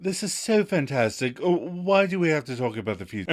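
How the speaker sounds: put-on breezy English accent dodging the subject; Emily's English accent. Ross imitating Emily in an English accent to Monica. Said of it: "switched into the Emily accent".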